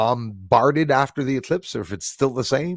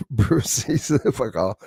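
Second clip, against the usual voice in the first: slow, broken up by laughter; laughing through it; slower than usual. Real, not acted. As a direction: chuckle your way through the name. Laughs through troll name.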